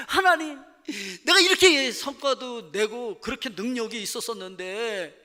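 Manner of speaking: loud, high self-pitying moan; whining complaint to God.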